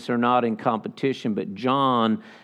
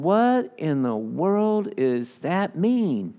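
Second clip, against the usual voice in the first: slow, stretched-out puzzlement; drawn-out bafflement; 4 semitones higher, much slower than usual. Retold or imitated. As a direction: drag out the confusion, word by word. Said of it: "And I'm just going".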